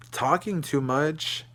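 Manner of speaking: slow, disbelieving rising question; mock-baffled retort; incredulous echo. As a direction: repeat her words back in disbelief. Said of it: "I'm like".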